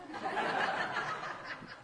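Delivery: a quiet breathy laugh at her own story; soft breathy laugh. Real, not acted. Preacher laughing at the massage story, soft breathy laugh. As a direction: laugh under the breath, almost silent.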